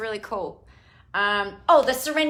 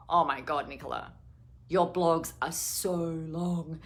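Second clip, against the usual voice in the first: mock husband complaint; 4 semitones lower, 4 dB quieter than usual. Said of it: "And he goes".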